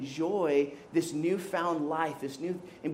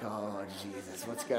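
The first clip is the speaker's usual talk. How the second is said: inner alarm; 9 semitones lower, 11 dB quieter than usual. Retold or imitated. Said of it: "everything inside of me is just like".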